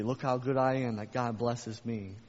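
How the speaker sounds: mock the proud believer, puffed up; prideful boast. Preacher mimicking a proud believer, mild smug boast. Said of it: "you can walk out in pride".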